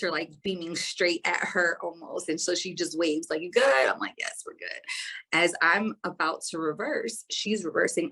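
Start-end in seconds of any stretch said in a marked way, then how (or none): 3.4-3.9 calling across the parking lot; a loud check-in tossed from the car. Retold or imitated. Friend calling from her car. 4.2-4.8 whispered reply. Retold or imitated. Quick answer back to the friend.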